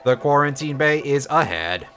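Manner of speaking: stiff robotic monotone. Pretend. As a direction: read it like a dull robot. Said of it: "the stupid robot voice".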